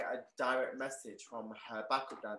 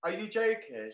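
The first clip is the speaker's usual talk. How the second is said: incredulous; 8 semitones higher, 5 dB louder than usual. Retold or imitated. Retold shock, can't believe it.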